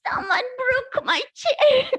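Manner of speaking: high, slow, loud sobbing cub; Baby Bear sobs to Mama about his chair; crying Baby Bear. Acted. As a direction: sob the words like a little bear. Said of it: "Baby Bear started crying again".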